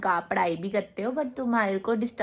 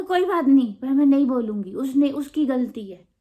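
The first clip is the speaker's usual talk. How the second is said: defiant shout; 3 semitones higher, 6 dB louder than usual. Retold or imitated. Child refusing mom.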